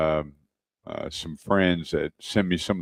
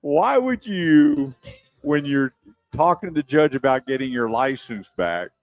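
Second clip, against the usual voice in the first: incredulous; 6 semitones higher than usual. Retold or imitated. Teller baffled by the driver's behaviour.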